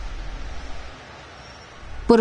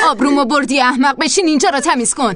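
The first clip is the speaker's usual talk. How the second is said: raised, higher berating voice; angry scolding; 4 semitones higher than usual. Acted. Captor scolds the girl, angrily raised voice. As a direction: tear into her.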